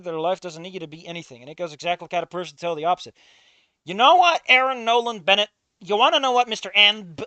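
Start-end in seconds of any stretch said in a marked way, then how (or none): 3.9-5.5 much higher, loud challenging shout; confrontational call-out. Real, not acted. Streamer yelling at the game's writer, loud challenging shout. 5.8-7.2 higher, loud challenge; building call-out. Real, not acted. Streamer confronting the writer, loud building shout.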